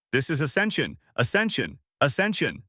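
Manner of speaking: chanting the word in excitement; excited cheering. Acted. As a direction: cheer it like a crowd. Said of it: "they became excited".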